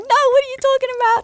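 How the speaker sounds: very high, rapid mock indignation; pushing back. Wife pushing back at being called emotional, indignant. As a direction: squeal a defensive denial, hammed up. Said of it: "you push back 'cause you're like".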